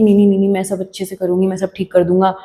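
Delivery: rattled-off reassurance, starting very fast; hasty promise. Acted. Promising a hurt friend a quick fix, hasty.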